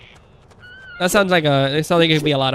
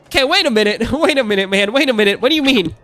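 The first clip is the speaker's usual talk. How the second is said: higher, baffled wait-a-minute; incredulous double take; 6 semitones higher, faster than usual. Retold or imitated. Streamer reenacts hearing Chucky sounds like a mobster, incredulous. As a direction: retell your own stunned reaction, pitched up. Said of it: "And I'm like".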